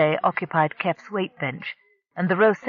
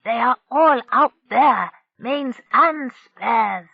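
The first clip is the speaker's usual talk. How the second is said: mild angry insistence; 6 semitones higher, 5 dB louder, slower than usual. A narrator's reading. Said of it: "Narrowleg gestured angrily".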